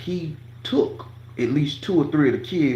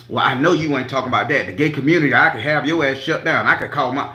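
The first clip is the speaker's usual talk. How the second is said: loud retold threat; 3 semitones higher, 5 dB louder than usual. Staff man's retold threat.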